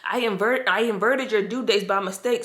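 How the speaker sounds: apologetic lady. Retold or imitated. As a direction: imitate the flustered nurse saying sorry. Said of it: "She was like".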